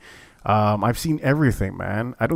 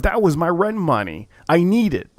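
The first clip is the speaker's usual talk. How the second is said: retold desperate plea; 6 semitones higher than usual. Retold loser pleads for rent money.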